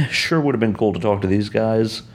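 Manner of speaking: rueful chuckle on the repeat; laughing repeat. Shown as a demonstration. Telling listeners about a missed chance, laughing. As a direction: laugh through sure would have been cool.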